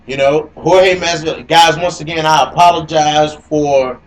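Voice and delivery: echoey robot voice audio; robot voice from glitchy audio. Real, not acted. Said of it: "I sound like a robot. It's echoing".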